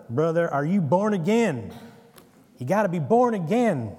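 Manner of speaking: put-on American Southern preacher accent. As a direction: belt it like a Southern tent-revival preacher. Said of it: "I have to hear it in an American Southern accent".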